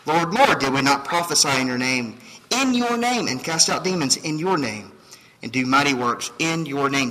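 the claimants' loud pleading to Jesus; pleading claimants. Acted. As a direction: cry out your claim to the Lord.

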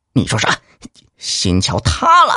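shocked. Acted. Magistrate shocked by news.

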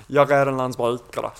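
"Jag är en landsbrukare" in a Skånska accent, throaty r in the back of the throat; southern Swedish Skånska, words pushed to the back of the throat; Skånska dialect. Shown as a demonstration. Showing friends his best mate's Skånska accent, in thick Skånska. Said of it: "if I said it with a Skånska dialect".

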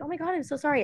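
high-pitched mock sympathy; gushing pity. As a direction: imitate people pouring out pity. Voices people pitying her.

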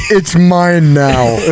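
slow mock possessive. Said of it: "He said".

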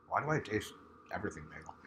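soft fast funny voice. Pretend. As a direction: talk in a silly voice. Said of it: "I want to talk like this".

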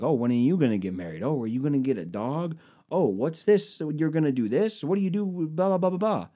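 rising high singsong nagging; mocking nosy guests. Guests pestering him at the wedding, in mock singsong. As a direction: parody the pestering questions.

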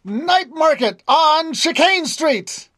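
high, slow, ringing street cry; announcer call. Acted. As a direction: call it out across the tavern. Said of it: "gives out a shrill whistle, and announces".

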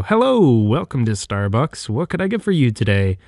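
upbeat, quick barista greeting; drive-thru greeting. Retold or imitated. Barista greeting a Starbucks drive-thru customer, energetic and quick. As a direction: sell it like a chirpy drive-thru worker. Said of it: "so energetic at the drive-thru".

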